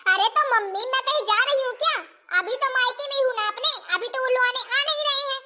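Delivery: acted daughter's cross protest; understated acted irritation; mildly angry. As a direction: argue back at your mother, mildly annoyed. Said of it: "काहे इतना गुस्सा कर रही हो".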